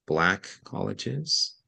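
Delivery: Black colleges said slowly, each word weighted; slow down and lean on Black colleges; stress on Black colleges. Shown as a demonstration. Teacher demonstrating emphasis, slow stressed words. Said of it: "I emphasized".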